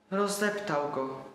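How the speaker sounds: put-on a boy who cannot understand; slow hurt childlike why; bewildered child grief. Boy grieves his crushed toy.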